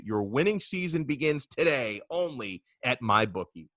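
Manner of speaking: scripted sponsor pitch, drawing out the promo code; ad read. Acted. Host pitching a betting site to listeners, ad read.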